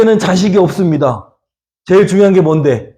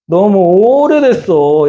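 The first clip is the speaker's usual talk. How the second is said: slow, drawn-out sigh of a complaint, pitched higher; weary complaint; 5 semitones higher, much slower than usual. Acted. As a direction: stretch it out like a tired, wronged man. Abraham's weary complaint voiced. (지친 듯 느리게 늘어뜨린 하소연)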